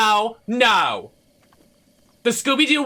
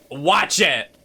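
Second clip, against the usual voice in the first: laughing threat. Real, not acted.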